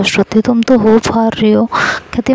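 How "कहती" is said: ordinary delivery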